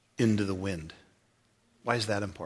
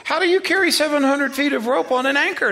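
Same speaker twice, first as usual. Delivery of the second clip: retold disbelief; 13 semitones higher, 7 dB louder than usual. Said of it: "I go".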